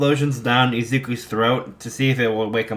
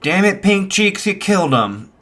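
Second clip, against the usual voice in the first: mock scolding; 8 semitones higher, 4 dB louder than usual.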